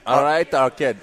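copied Mancunian greeting; Manchester accent attempt. Host copying pub owner, Manchester accent. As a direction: try a Manchester hello. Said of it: "I want you to try this".

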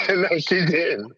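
each word stretched and dragged; slow drawn-out "No, she didn't". Retold or imitated. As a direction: draw out "No, she didn't" slowly. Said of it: "I was like".

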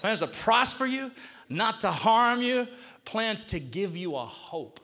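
preacher drawing out each phrase; slow, weighted delivery. Shown as a demonstration. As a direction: lean on each word, slowly. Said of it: "take a little bit of time on each one of them words".

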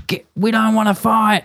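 retelling a street fight, voicing their frightened pleading; mock panic. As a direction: squeak it out like scared kids. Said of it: "and we're like".

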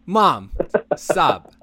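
put-on high, loud whiny teen complaint; whiny teenager. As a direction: whine like a teenager at mom. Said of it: "sounding like a whiny teenager".

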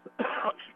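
a real choking cough on popcorn. Real, not acted. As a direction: cough from dry popcorn stuck in the throat. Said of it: "Choking on a little dry popcorn".

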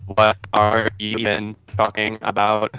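broken robotic mic sound; glitchy robot-like headset audio. Real, not acted. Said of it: "the Robot".

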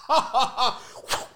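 high, loud imitated "ha ha ha"; dad's mock laugh. Son imitates dad before the remote hit, mock laughing. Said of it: "He goes".

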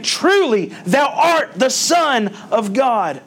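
rising proclamation of faith, slow on the end; exclaimed. Acted. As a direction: call it out high and slow. Quoting disciples' exclamation.

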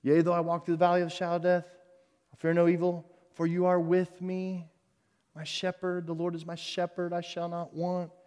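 soft, reverent reading of the psalm; quiet scripture recital; hushed psalm recitation. Acted. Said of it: "You remember the Psalm twenty-three?".

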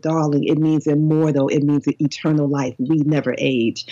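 put-on English accent. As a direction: pronounce it gently grandly with a hint of English accent. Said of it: "she had an English accent".

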